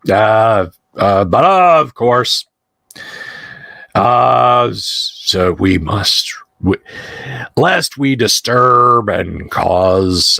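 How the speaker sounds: put-on slow, halting drunk with formal phrasing; slightly drunken, ceremonious stalling; lightly voiced drunk vagrant. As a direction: drag the words out a little, searching for each one.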